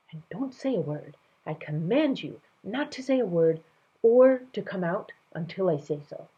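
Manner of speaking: firm royal command; commanding king. Acted. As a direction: give a stern royal order.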